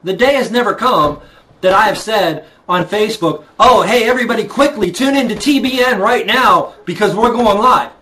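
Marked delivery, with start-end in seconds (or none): 3.6-7.9 mock hype announcement. Mock announcement he never made.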